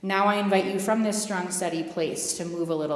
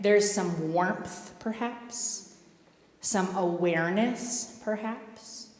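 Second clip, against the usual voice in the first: soothing guidance; slower than usual. Acted. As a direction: ease them into noticing the body. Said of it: "guiding calm awareness after breathing".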